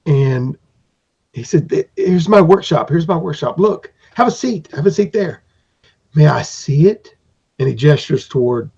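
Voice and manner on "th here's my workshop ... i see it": eager craftsman. Acted. Craftsman showing his workshop.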